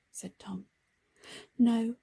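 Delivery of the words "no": firm no. Acted. Harry insists.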